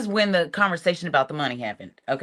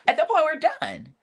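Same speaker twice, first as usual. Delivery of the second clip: higher-pitched first declaration; emphatic verdict; 8 semitones higher than usual. Retold or imitated. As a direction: declare it higher, in one quick go. Repeats verdict for finality.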